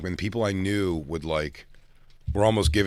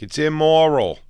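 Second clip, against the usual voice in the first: a higher, louder prim scold; mock outraged mom; 5 semitones higher, 5 dB louder than usual. Son mimics his mom scolding him. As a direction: play the shocked mother threatening police.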